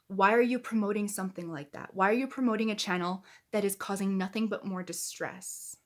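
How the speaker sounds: rising indignation, pressing each question; getting heated. Real, not acted. Vlogger scolding a fellow creator, heated. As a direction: let the anger build as you accuse her. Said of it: "I'm getting way too heated".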